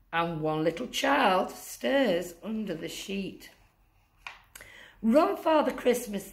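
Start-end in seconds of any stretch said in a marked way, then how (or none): 5.0-6.3 higher, hurried urging elf. Acted. Elf urging Santa to flee the stirring child, urgent. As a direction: push Santa to run. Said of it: "the elf says".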